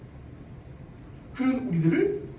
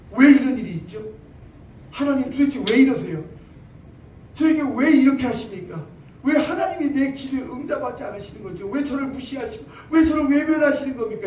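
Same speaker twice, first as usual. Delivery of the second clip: loud, whining protest to God; grumbling complaint; 3 semitones higher, 6 dB louder than usual. Pretend. Preacher voicing a believer grumbling at God, loud complaint. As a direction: complain bitterly to God, half acted. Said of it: "이렇게 투덜거리지 않는다는 거예요".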